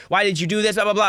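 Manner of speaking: put-on upset girl. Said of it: "You're upset".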